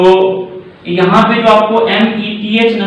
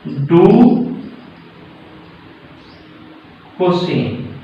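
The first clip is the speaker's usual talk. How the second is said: drawn-out name; much slower than usual. Shown as a demonstration. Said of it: "twenty two को बोलते हैं".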